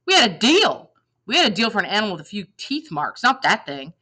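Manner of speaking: high, pressed indignation at first; indignant protest. Acted. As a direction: insist on the deal, aggrieved. Goat man protests deal.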